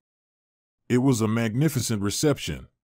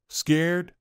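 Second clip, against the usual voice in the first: incredulous; 6 semitones higher than usual. A narrator's reading. Stunned echo of her excuse.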